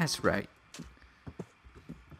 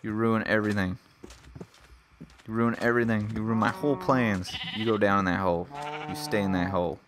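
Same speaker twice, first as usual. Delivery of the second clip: louder, scolding the sheep; mad at the sheep; 4 dB louder than usual. Real, not acted. Player scolding the sheep that wrecked his plans, louder angry. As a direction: tell off the sheep that ruined everything. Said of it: "I'm so mad at you".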